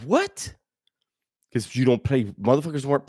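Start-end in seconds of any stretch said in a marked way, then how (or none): 0.0-0.5 mock outraged what. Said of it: "I was pissed".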